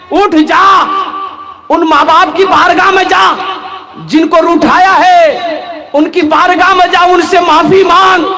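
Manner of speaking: stern rebuke. Acted. Elder shouting at the young man to go home. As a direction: order him up sharply, like a stern elder.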